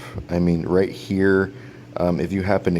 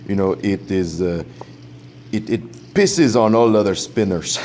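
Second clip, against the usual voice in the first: hammed-up, horrible Russian accent; mock Russian accent. Reviewer imitating his Russian friend praising the spinner, mock Russian accent. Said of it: "sorry, um, for my horrible, uh, Russian accent".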